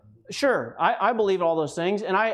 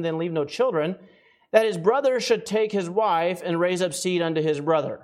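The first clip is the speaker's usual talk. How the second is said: scripture reading. Acted. Reads scripture aloud.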